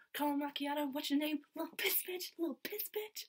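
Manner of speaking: high-pitched comic quoting voice; joke re-enactment. Retold or imitated. Fan re-enacting her favourite joke from the show, high comic voice. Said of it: "the little piss bitch joke".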